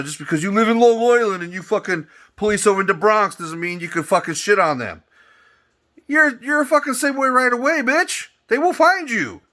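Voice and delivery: high, loud, building rage; furious high yell. Real, not acted. Yelling at Long Island cops who police the Bronx, furious high shout. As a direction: shout it up at them, losing it.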